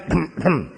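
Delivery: a fake cough to hide the word; throat-clearing cough. Hiding his priest title at the AA meeting, faked cough. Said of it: "I coughed over the father part".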